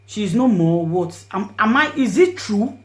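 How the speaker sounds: high, loud, slow pleading into the phone; desperate pleading. Retold or imitated. Woman begging her dead friend to answer the phone, anguished. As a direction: beg her to answer, voice breaking.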